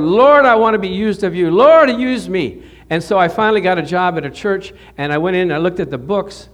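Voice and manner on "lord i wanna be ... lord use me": earnest plea. Retold or imitated. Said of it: "I cried out to the Lord".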